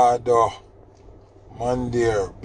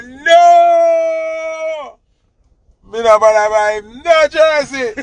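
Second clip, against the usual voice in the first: loud, high shout of refusal; retold furious refusal; 13 semitones higher, 6 dB louder, much slower than usual. Father shouting at son in the store, loud high refusal. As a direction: bark NO at him, then keep yelling.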